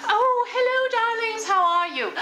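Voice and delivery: put-on high, breathy old-Hollywood hostess greeting; breathy vintage purr. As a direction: purr it like a glamour star. Campy host greeting viewers.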